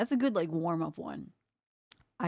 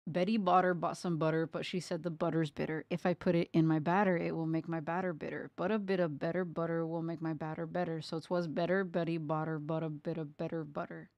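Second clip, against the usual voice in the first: tongue twister. Shown as a demonstration. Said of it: "try this one one more time".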